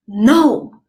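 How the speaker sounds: "No" starting high and loud, dropping; falling tone. Shown as a demonstration. Patient refusing the dentist's price, "No" falling sharply. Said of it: "it's going".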